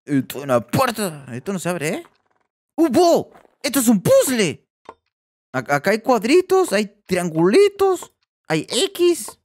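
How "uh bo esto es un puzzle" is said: louder, higher burst of glee; light up at the puzzle; excited discovery. Real, not acted. Gamer discovers a puzzle, louder excited cry.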